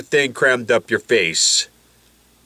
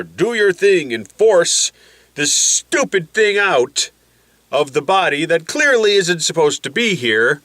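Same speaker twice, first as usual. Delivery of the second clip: higher-pitched voice rallying the troops; indignant face; 6 semitones higher than usual. Acted. Face orders antibodies to remove the intruder, indignant. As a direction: play the body objecting, then ordering the intruder out. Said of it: "because the face says".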